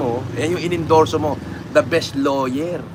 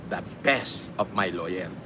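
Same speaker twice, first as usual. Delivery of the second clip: mocking quote; 10 semitones lower, 10 dB quieter, slower than usual. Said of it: "Sinabi niya".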